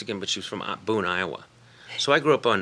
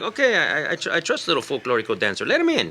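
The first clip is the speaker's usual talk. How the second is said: Moctezuma; 7 semitones higher, 5 dB louder than usual. Acted. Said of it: "Moctezuma was like".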